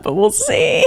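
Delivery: singsong squeal. Real, not acted. Sceptical reader to poster, singsong squeal. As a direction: lilt it up into a squeaky, giggly register. Sceptical aside while reading post.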